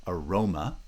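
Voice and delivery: aroma with stress on the middle syllable; careful example word aroma, stressed second syllable; unstressed first syllable. Shown as a demonstration. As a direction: reduce the opening of aroma, lean on ro. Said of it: "there's this unstressed syllable before it".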